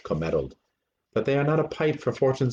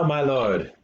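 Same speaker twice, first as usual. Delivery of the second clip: usual speaking voice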